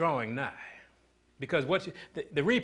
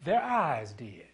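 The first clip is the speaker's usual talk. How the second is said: whisper; much slower than usual. Acted. Dramatic hushed punchline.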